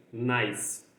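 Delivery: "nice" ending on the S sound of C, final E silent. Shown as a demonstration. Teacher showing learners that E is unpronounced, "nice" with silent E. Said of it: "eu tô pronunciando é a letra C".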